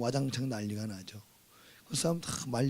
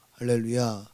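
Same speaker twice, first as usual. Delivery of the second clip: ordinary talk, nothing marked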